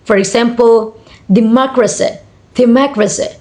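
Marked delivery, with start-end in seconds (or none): 1.3-3.3 democracy with the MOC made strongest; primary stress on second syllable. Shown as a demonstration. Teacher showing primary stress, democracy stressed on MOC. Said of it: "Primary on ma".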